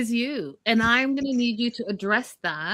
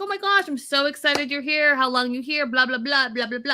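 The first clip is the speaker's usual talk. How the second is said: gushing, higher voice, playfully overdone; mock excited gushing; 5 semitones higher than usual. Host mocking the welcome he never gave, gushing. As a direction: parody an eager boyfriend thrilled she's here. Mocking the reply he didn't give.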